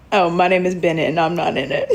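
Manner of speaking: quoting the line while laughing; catchphrase through a laugh. Shown as a demonstration. Recalling the show's catchphrase, laughing at it. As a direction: land the catchphrase and crack up. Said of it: "What's that phrase?".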